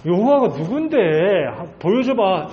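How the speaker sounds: taunting string of challenge questions; lightly acted jeering, each question tossed out; mocking Pharaoh. Pharaoh demands to see where God is, mocking. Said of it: "하나님을 지금 바로 왕이 완전히 조롱하고".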